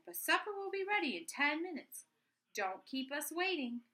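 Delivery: high, bright motherly line; mother character. Acted. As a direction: lift the voice up for the mom. Mother voices Missus Midas.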